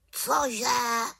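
raven yelps in alarm, pitched high; a startled squawk of dismay; high, alarmed Cože?; alarmed cry. Acted. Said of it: "zděšeně zvolal Abraxas".

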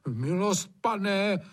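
high, pleading "Milost, pane" with a rise; horrified plea. Acted. Gamekeeper Hajný horrified, pleading with his master. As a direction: beg in alarm. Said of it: "zhrozil se Hajný".

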